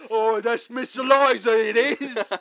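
put-on high, loud old woman voice; old lady voice. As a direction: play a cranky old village lady. Old lady witch voice impression.

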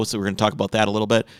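breathless podcast sign-off; talking while out of breath. Real, not acted. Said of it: "Man, I'm out of breath".

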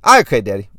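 put-on loud baby-talk, starting high; impression of a plucky little kid; four-year-old son. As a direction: pipe up like a small boy after a tumble. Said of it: "do my best impression of my son".

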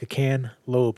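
"cantaloupe" said slowly as kan-lope, no middle syllable; mock Texan cantaloupe. Cohost teasing her Texas accent, slow mock can-lope. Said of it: "it sounded like you might have been saying".

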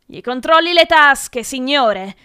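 loud, high urging; shouting. A narrator's reading. Brett urging the professor to search the pupil, shouting. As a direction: cry out a tip to the teacher. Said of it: "gridò Brett".

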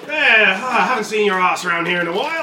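put-on DJ in an English accent, a touch Australian; chatty club DJ with an English accent. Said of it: "I've got an English accent".

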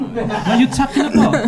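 slow, put-on British English; British accent. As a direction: play it posh and British. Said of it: "I'm a British person".

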